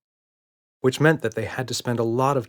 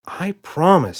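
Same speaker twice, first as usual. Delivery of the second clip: put-on much higher, insistent child's voice; eager little girl; 9 semitones higher, 7 dB louder, slower than usual. A narrator's reading. Emma begs Daddy to check the closet, eager child. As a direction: urge him like an eager kid.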